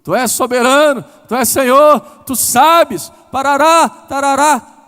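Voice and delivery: loud, high, ceremonious mock prayer; mock formal prayer. Woman praying a correct prayer without heart, declaimed loudly. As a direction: ham up a stiff, showy prayer to God. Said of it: "E foi".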